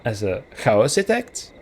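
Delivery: Chaositect begun with a breathy H, as in hhaositect; testing a throaty H at the start of Chaositect; sounding out Chaositect with a rough H; trying an H sound. Shown as a demonstration. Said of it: "should the X be pronounced as a H".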